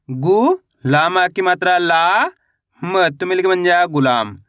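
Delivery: गु and ला held long, then गुलाम said whole and falling; syllable-by-syllable spelling. Shown as a demonstration. Teacher showing beginners how to read गुलाम, syllable by syllable. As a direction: sound out गुलाम piece by piece. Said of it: "एक एक अक्षर का उच्चारण करके".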